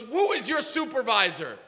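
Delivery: high, demanding challenge; half-yelled acted demand; mock yelling. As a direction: imitate an irate man demanding an answer. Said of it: "he's yelling at me".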